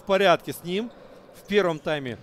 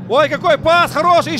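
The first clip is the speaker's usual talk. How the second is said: much higher, louder thrilled cry; excited commentary; 9 semitones higher, 8 dB louder than usual. Real, not acted. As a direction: cheer the pass. Great pass near goal.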